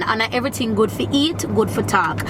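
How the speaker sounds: light Jamaican patois lilt on a proverb; Jamaican saying. Retold or imitated. Quoting a Jamaican proverb to her viewers, in light patois. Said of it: "In Jamaica, we have a saying".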